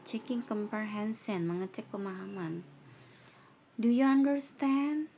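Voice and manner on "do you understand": a high, loud check-in to the class; loud teacher question. Shown as a demonstration. Teacher demonstrates checking understanding, loudly. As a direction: ask it loud and high, slow. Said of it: "pasti nanyanya".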